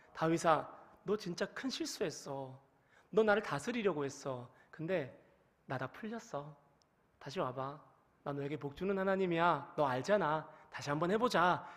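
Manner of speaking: God quietly welcoming David back; God reconciling. Acted. God forgiving David's mistake, gentle and hushed.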